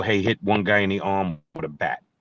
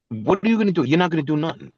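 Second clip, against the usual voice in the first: pitched up high, mocking the threat; incredulous sneering jab; scornful challenge; 7 semitones higher, faster than usual. Real, not acted. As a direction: call out his bluff with scorn. Mocking a bandmate's empty threat.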